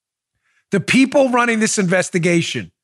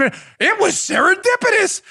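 mocking; 9 semitones higher than usual. Mocking the FBI's excuse.

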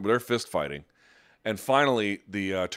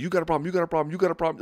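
raised, insistent repeated challenge; in-your-face challenge; 9 semitones higher, much faster than usual. Retold or imitated. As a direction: push the question right in his face. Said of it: "he's, like, in his fucking face".

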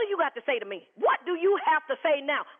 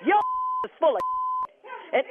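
laughing insult; 5 semitones higher, faster than usual. Real, not acted. Laughing while insulting caller.

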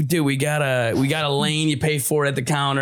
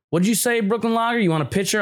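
bowling alley bartender puzzling over a beer order, confused and pitched up; 6 semitones higher than usual. Retold or imitated. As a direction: play the baffled girl at the counter, pitched up. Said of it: "She goes".

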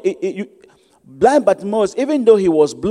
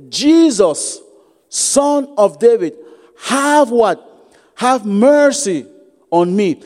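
mock cry out; 2 semitones higher, much slower than usual. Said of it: "He cried out, he shouted".

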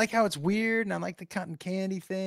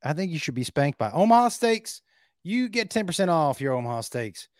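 lightly voiced salesman-host persona with sudden loud peaks; Clyde Blackstone; 4 semitones lower, 3 dB louder than usual. Host offering caller a birthday steak discount, lightly played persona. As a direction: pitch the sponsor as a showy host character.

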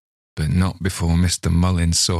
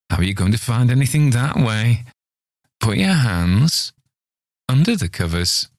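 impatient scolding; 5 semitones higher, 3 dB louder than usual. Acted. Old man scolding nurse.

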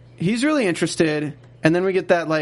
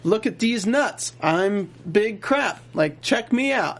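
boastful Jake; 3 semitones higher than usual. Retold or imitated. Jake shows Paolo his bank, bragging. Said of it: "Jake's is talking to Paolo, like".

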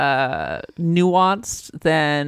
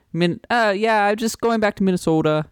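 put-on Minnesota accent; 5 semitones higher than usual. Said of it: "I'll be like".

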